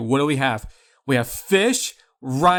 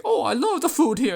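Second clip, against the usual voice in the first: lightly voiced gushing friend, pitched much higher; a hint of a chirpy friend raving about the food; imitating English friend; 12 semitones higher than usual. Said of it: "she's like".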